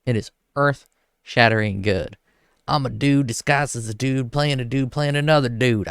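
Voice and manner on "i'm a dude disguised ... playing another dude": higher, put-on character voice, half-hearted; a rough stab at the dude playing a dude; Robert Downey Junior impression. Quoting the Tropic Thunder role to viewers, higher put-on voice. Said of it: "I can't even do it".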